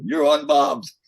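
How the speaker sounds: high, loud retold shout; yelled warning. Roadie warning a singer about the pyro, yelling. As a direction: yell it back urgently over the stage.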